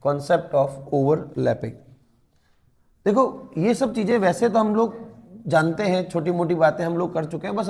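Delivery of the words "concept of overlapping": slow, low-key heading read for notes; slow dictation. Shown as a demonstration. Teacher repeating the heading slowly for students. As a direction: spell the heading out slowly word by word. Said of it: "next heading आप लगा सकते हैं".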